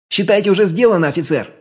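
high rasping answer; croaked reply. A narrator's reading. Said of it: "прокаркал он в ответ". (каркающий ответ)

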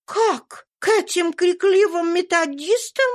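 shocked exclamation. A narrator's reading. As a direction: gasp in horror at the idea. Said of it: "вскричала Мария". (возмущённое восклицание)

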